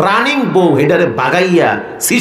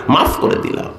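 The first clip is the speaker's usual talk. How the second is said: softer, half-whispered repeat; hushed pardon; 2 semitones higher, 4 dB quieter than usual. Acted. God forgives the hopeful servant, hushed delivery. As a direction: let the words drop to a near whisper.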